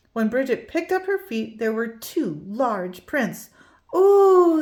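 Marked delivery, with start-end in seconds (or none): 3.9-4.6 delighted. A narrator's reading. Bridget delighted by footprints.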